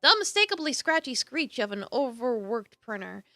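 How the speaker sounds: measured, dramatic narrator reading; storyteller setting the scene; story narration. A narrator's reading. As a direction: narrate the scene with deliberate emphasis. Reads game narration aloud.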